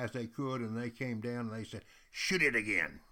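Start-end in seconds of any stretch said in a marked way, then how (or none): 2.1-3.0 loud, eager call; a Huron calling out, thrilled; excited demand. Retold or imitated. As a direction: cheer for another shot. Excited Hurons demanding another shot.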